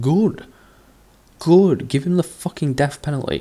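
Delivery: high, loud gleeful "Good"; gleeful cheer. Real, not acted. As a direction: cheer the judge on, delighted. Cheering the judge's harsh ruling.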